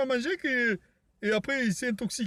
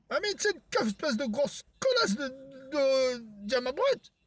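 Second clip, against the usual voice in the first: squeaky character voice; 3 semitones higher, slower than usual. Acted. High-pitched character voice.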